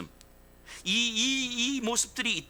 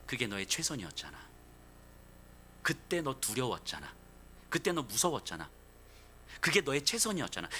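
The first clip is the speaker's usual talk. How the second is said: gentle consoling; 4 semitones lower, 3 dB quieter than usual. Acted. Jesus voiced consoling Peter.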